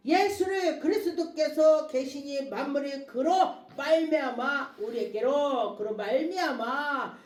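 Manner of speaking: stretched, emphatic scripture proclamation; preaching scripture. Acted. Preacher proclaims Christ to the congregation, declaiming. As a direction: roll the verse out to the congregation.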